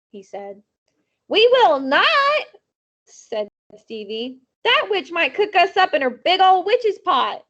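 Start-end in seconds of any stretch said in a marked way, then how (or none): 1.3-7.4 scared refusal. Acted. Frightened boy refuses the party.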